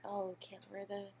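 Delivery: mock her own vanity lightly; a hint of a prissy fashionista; mock shallow voice. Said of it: "I'm like".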